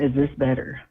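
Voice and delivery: muffled and distant on speaker; speakerphone. Real, not acted. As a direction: call sounding like a bunker. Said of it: "Nope, but it's fine".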